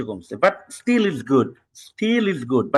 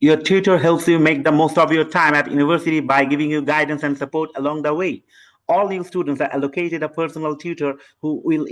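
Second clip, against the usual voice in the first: exam read-aloud demo; much slower than usual. Shown as a demonstration. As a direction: read it through without stopping. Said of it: "আমি একটু চাপ দিয়ে শোনাচ্ছি".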